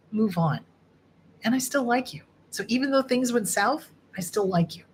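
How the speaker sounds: lightly voiced gentle encouragement; a hint of a reassuring inner voice; kind inner voice. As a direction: talk to yourself like a kind friend. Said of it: "tiny little voice inside your head that goes".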